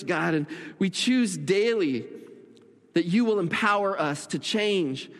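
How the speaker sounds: earnest prayer in measured, paused phrases; congregational prayer. Real, not acted. Pastor leading the church in a prayer of commitment, earnest prayer. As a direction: pray aloud for the room, unhurried between phrases.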